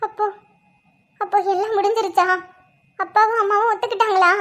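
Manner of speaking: halting tearful questions. Acted. Sister learning her engagement is being fixed, tearfully. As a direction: ask as if the tears are starting. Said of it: "இப்ப என்னத்துக்குடி அழுகுற?".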